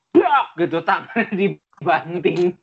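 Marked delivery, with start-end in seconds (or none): 0.1-0.6 sudden high, loud "brak"; imitated slam noise. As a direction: make the thud of a paw slammed down. Imitates paw slammed on floor.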